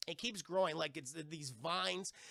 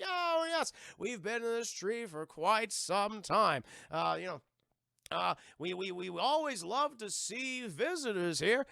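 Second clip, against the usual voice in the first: put-on a slow, higher, quaint old-folks voice; lightly voiced old tree couple; 3 semitones higher than usual. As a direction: play kindly old portrait people, lightly.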